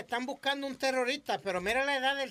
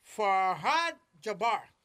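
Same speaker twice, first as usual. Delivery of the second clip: slow careful name; 3 dB louder, much slower than usual. Real, not acted. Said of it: "Se llama".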